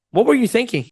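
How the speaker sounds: caring, curious question; great tonality. Shown as a demonstration. Coach showing average wording with great tonality, caring. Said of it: "but with great tonality".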